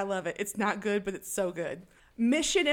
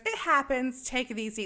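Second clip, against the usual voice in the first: lightly gleeful, brighter opening that settles; a touch of breezy cheerfulness; 3 semitones higher than usual. Acted. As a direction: brush the caller off with mild cheer. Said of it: "So gleeful".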